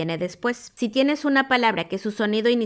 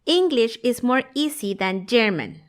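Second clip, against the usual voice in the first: mock learner error; slower than usual. Shown as a demonstration. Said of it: "escucho errores como este".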